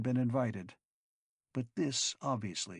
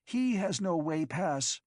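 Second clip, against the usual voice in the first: loud, higher accusing cry; 6 semitones higher, 4 dB louder than usual. A narrator's reading. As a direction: call it out to the guards. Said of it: "Luluki cried".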